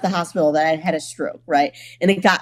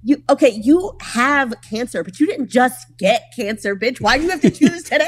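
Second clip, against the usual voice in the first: mock indignant rant; 6 semitones higher than usual. Ranting at cancer poster.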